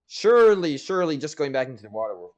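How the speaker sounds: hammed-up certainty that the water will fix it; mock confident. Mock self-reasoning in a story.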